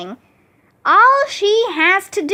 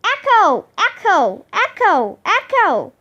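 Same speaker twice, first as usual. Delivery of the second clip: imitated echo, falling on each repeat; repeated mild call, dropping in pitch; yelled echo; 4 semitones higher than usual. A narrator's reading. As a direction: bounce the word back like gym walls. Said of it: "yelled the gym".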